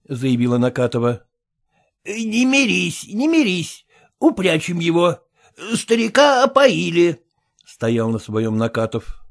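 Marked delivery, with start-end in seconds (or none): 2.0-7.2 slow, raised, lightly voiced refusal; stubborn husband. Husband telling his wife to refuse, slow and stubborn. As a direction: dig in your heels.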